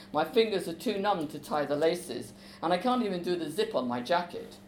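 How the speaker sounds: expressive reading of a novel scene with voiced characters; story reading. A narrator's reading. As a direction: read it aloud to a class like a play. Author reads scene aloud.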